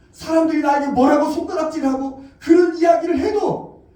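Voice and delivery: preacher shouting to congregation; preaching shout. Real, not acted. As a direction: drive the point home. Preacher building to climax.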